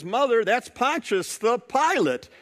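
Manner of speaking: lightly acted impatience with mother; a kid explaining the obvious, impatiently; impatient little girl. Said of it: "starting to sigh and impatient".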